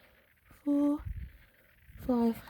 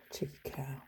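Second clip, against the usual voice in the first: much softer, slow, voiceless aside; whispered insult to herself; 5 semitones lower, 13 dB quieter than usual. Real, not acted. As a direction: breathe the insult under your breath. Muttered insult after a sigh.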